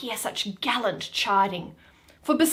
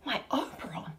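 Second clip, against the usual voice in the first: waking gasp; 11 dB quieter, faster than usual. Acted.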